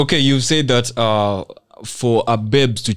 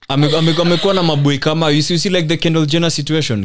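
laughing; 6 semitones higher than usual. Real, not acted. Laughing while listing exes.

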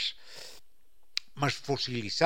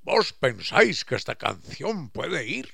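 mock archaic "vos pensáis" said louder and slower; hammed-up old Castilian courtly address; Quijote-style speech; 6 dB louder than usual. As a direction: play Don Quijote addressing Vinicio. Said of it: "como si fuera el Quijote".

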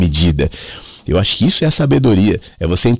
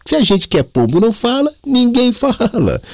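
put-on hammy Italian accent from Mooca, pitched way up. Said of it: "fechava sempre com esse".

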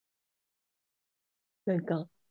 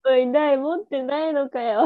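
put-on taunting kid; 4 semitones higher, 5 dB louder than usual. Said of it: "持ってないのかよって".

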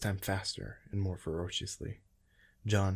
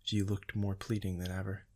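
ordinary delivery

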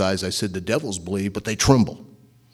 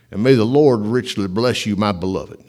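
put-on Southern accent; 6 dB louder than usual. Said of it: "J. Vernon McGee spoke with a Southern accent".

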